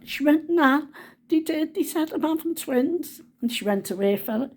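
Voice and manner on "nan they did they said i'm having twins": high, excited insisting; imitated insistence. Granddaughter convincing disbelieving Nan of twins, imitated excited insistence. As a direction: insist on it high, stretching the start.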